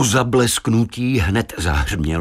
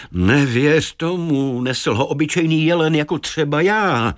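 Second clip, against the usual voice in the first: higher, slowed deer character; talking deer; 7 semitones higher than usual. Acted. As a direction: contradict the boy as the deer. The deer answers the boy. (zvýšený hlas mluvícího jelena)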